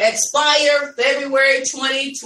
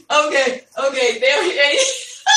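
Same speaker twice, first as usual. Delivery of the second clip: talking through real laughter; laughing. Real, not acted. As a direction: get the words out while still laughing. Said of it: "I'm just laughing at Adrian".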